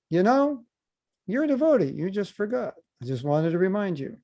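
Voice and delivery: high, bright and sing-song, as if gently reminding; mock sweet reminder. To a coworker on Monday morning, a high mock-sweet nudge. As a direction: lift the pitch way up, sweetly nudging a coworker.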